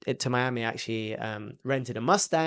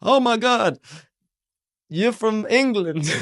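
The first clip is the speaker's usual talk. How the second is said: high, loud mock fangirl squeal; gushing excitement; 10 semitones higher, 7 dB louder, slower than usual. American girls thrilled by an Englishman, mock gushing. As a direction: gush in a high voice, drawing it out.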